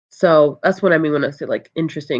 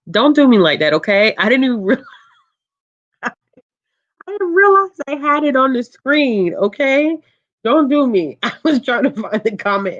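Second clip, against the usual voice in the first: laughing protest; 9 semitones higher, 4 dB louder than usual. Real, not acted. Caught with comment on screen, laughing.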